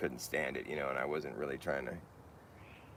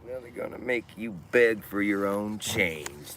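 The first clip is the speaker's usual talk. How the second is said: poem recital; 5 dB louder than usual. Acted. Reciting a poem about Big Brother, spoken-word delivery. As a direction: deliver it like a punchy political poem.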